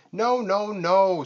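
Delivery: high, loud screeching no. A narrator's reading. Vulture screeches at Lion's idea, high and loud. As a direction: screech it like an outraged bird. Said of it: "screeched Vulture".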